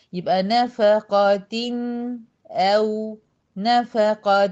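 نفقة slow, the clear n held for a medium length. Shown as a demonstration. Teacher shows students how long the n in نفقة lasts. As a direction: hold the n in نفقة a moderate beat. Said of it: "هو ده توسط النون المظهرة".

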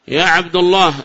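"عبد" ending in -u; wrong damma. Shown as a demonstration. Teacher repeats the error, "عبد" said abdu. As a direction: say "عبد الله" as Abdullah. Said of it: "هذا لحن لا يصلح".

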